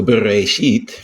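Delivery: bereshit with the stress on its last syllable, shit; bereshit, ending on a stressed, rising shit; stress on final syllable. Shown as a demonstration. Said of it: "we put the accent on sheet".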